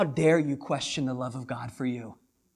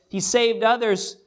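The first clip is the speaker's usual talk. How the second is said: higher, louder scornful taunting of a crowd; mocking crowd; 3 semitones higher, 5 dB louder than usual. Preacher voicing the mockers jeering at the cross, scornful and louder. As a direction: jeer it up at the man on the cross. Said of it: "the voice of their mocking says".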